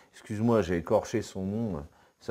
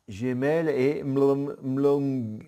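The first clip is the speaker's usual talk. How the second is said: slow, louder mock Klingon reading; Klingon accent; 2 semitones higher, 6 dB louder, much slower than usual. Youtuber stumbling over Klingon words, mock Klingon accent. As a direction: sound out "Mlom" slowly in a Klingon accent. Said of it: "avec l'accent".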